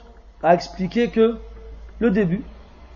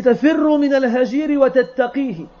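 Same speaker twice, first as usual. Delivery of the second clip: poem recitation; 4 semitones higher than usual. Acted. Teacher quotes the verse before explaining it, sustained poem recitation. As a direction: recite the half-verse in one sustained phrase.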